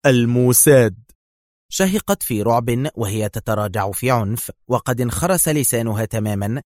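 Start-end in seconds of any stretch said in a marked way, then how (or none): 0.1-1.0 hateful. A narrator's reading. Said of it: "أجابها في مقت".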